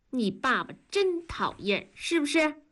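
put-on mild baby-talk grumble, lifting at the end; playful mock complaint to an infant; mother to baby. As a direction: grumble about daddy to a baby, cooing the question.

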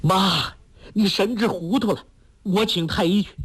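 startled son calling out high; crying out. Acted. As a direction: call out to her in shock. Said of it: "叫道".

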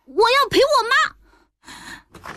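put-on high, slow child's voice; a boy drawing out his refusal; stubborn child. A narrator's reading.

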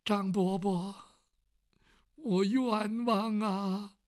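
very slow, drawn-out spirit voice; ghostly wail. Acted. The pot's ghost cries injustice to Uncle Zhang, very slow. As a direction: stretch out the grievance like a ghost. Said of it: "这盆儿又说话了".

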